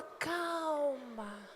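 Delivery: quiet the tantrum; hushed soothing word; soft calm. Shown as a demonstration. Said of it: "você fala".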